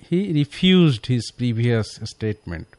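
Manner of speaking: very slow, word by word English; very slow dictation. Shown as a demonstration. Teacher dictating a sentence very slowly to the class. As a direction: drag each word out for learners. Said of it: "পরের সেন্টেন্সটা আছে".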